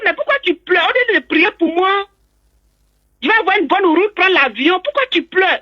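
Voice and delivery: imitated mild exasperated plea; puzzled pleading. She questions weeping relatives before leaving.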